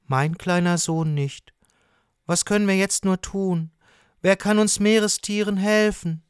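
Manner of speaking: high, pleading character voice; rising distress, voiced for children; worried lobster father. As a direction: plead helplessly for your little one.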